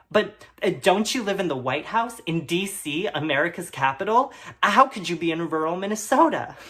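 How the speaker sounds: eager puzzled question. Acted. Narrator questioning Rosalind Carter.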